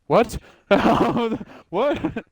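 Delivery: high, disbelieving what; shocked what. Retold or imitated. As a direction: gasp in disbelief. Retold shock at mission failed.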